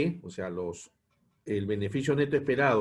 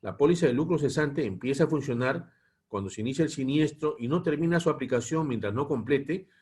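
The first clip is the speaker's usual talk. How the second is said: measured lecture read-aloud in phrases; formal, evenly paced reading from a text; 2 semitones higher than usual. Real, not acted. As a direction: read the policy text out to a class. Reads the lesson text aloud.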